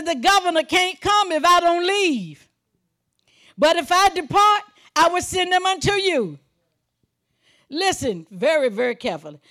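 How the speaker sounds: high, ringing sermon delivery; full-force preaching. Real, not acted. Preacher proclaiming the Comforter's coming to congregation, full-force preaching. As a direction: proclaim the verse with rising force.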